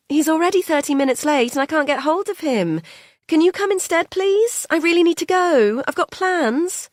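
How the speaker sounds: every sentence goes up like a question; high, impatient uptalk; uptalking carer. Acted. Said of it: "goes up at the end of every sentence".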